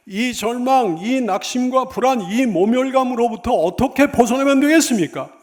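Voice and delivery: high and loud, building to a cry; preacher crying out for a way out; urgent, swelling rhetorical question; impassioned desperate plea. Acted.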